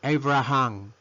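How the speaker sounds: Abraham said "AY-bra-han"; Abraham as a careful "EI-bra-han"; English "A" pronunciation. Shown as a demonstration. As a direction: begin Abraham on the letter-name "ay". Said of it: "la pronunciamos con A".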